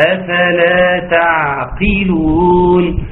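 slow chanted أفلا تعقلون with sustained ع; measured ayn. Shown as a demonstration. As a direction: recite تعقلون slowly, weighing the ع. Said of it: "وده وزن من مو-، من، من موازين". (أفلا تعقلون بترتيل يزن العين)

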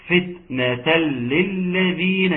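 slow recitation with long held vowels; Quran recitation. Shown as a demonstration. Teacher recites the verse for the class, slow tajweed recitation. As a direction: recite measuredly, drawing out the long syllables.

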